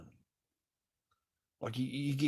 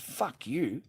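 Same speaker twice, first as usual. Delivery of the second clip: raised-pitch angry retort, replayed; retold angry outburst; 5 semitones higher than usual. Man replaying his retort to his partner, angry. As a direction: replay snapping back in an argument.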